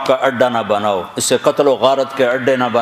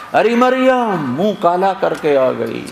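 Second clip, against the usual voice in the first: mocking taunt; 3 semitones higher than usual. Townsfolk taunting Maryam.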